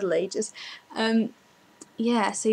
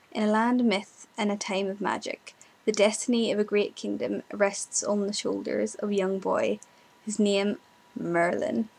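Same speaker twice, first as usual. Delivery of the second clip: amateur put-on Irish accent; bad Irish accent. Shown as a demonstration. Quoting Merlin's opening on a viewer's request, in a shaky attempt at an Irish accent. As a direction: recite it in your worst Irish accent. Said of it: "quote the beginning of Merlin in an Irish accent".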